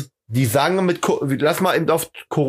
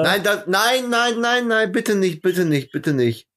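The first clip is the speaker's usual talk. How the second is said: pleading; 5 semitones higher, slower than usual. Acted. Begging him to stop the joke.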